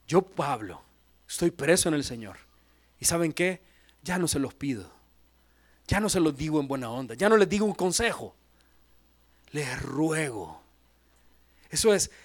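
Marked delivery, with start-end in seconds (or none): 0.1-10.6 pleading Paul. Retold or imitated. Paul begging the church.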